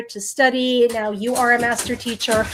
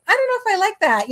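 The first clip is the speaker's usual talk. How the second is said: laughing; 11 semitones higher, faster than usual. Retold or imitated. Friend quoted, laughing retelling.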